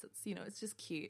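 grudging whispered admission; whispered aside. Retold or imitated. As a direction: whisper it to yourself. Private thought about the movie.

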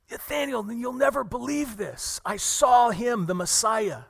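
excited news. Retold or imitated. Philip runs to tell his buddy, shouting with excitement. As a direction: burst out with the news, almost shouting. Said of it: "He's so excited".

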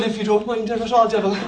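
a light polite Irish Jesus, laughing. Pretend. Preacher joking as a polite Irish Jesus, mild laughter. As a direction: apologise to the devil sweetly. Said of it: "That's what the Irish Jesus would do".

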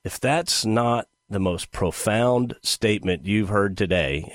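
dry mock admiration; sarcastic. Real, not acted. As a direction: feign awe in a deadpan voice. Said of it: "hear the sarcasm in my voice".

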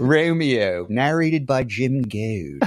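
slow Philly-accented audiobook credit; exaggerated Philly accent. Shown as a demonstration. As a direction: announce it slowly with thick Philly vowels. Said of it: "if I had a Philly accent".

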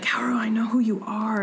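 hushed, breathy reveal in a whisper; imitating a brooding hero's whisper; dramatic whisper. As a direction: whisper it like a secret. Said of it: "And he's like".

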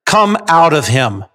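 slow, weighty order; stern. Shown as a demonstration. Jesus ordering a demon out, stern. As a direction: command it firmly, word by word. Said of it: "Jesus said sternly".

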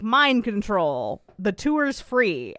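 slow, commanding hypnotic order; mock mind control. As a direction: lay the spell on him slowly. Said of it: "And Fiona's like".

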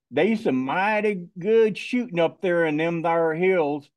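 put-on Arkansas hillbilly accent; folksy Ozark hillbilly accent. Shown as a demonstration. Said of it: "I'm gonna use my hillbilly voice".

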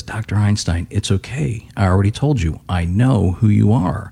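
lightly voiced calm conductor, slowing at the end; very calmly. Conductor reassures a panicked Einstein, mildly calm. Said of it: "again, very calmly says".

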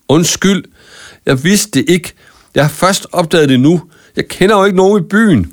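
højere, desperat forklaring. A narrator's reading. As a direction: sig undskyld i panik. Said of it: "forsøgte Marco desperat at forklare sig". (desperat, højere bøn om forståelse)

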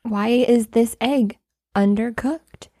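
measured, polite mock reprimand with pauses; very nice, calm. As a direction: lightly imitate a composed, courteous host. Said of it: "he would be very nice".

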